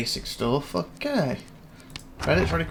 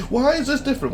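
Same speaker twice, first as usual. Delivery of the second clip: much higher, louder mock confusion; puzzled question; 12 semitones higher, 5 dB louder than usual. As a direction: act baffled at the screen. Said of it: "looking at this like".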